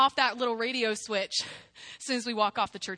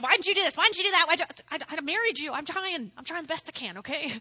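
rapid-fire, higher-pitched spouse bickering in jest; mock marital nagging; 3 semitones higher, faster than usual. Acts out a nagging married couple quarrel.

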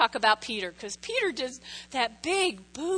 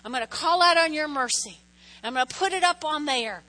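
prayer; 2 semitones higher than usual. Pretend. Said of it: "you go".

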